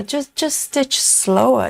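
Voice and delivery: slow, drawn-out coaxing. Retold or imitated. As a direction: stretch the words out lazily. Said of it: "Just go, "Oh yeah".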